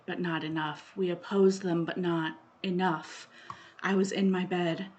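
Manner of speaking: measured, solemn poetry recital; poem reading. Acted. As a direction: let each phrase land, then fall away. Reads a poem aloud.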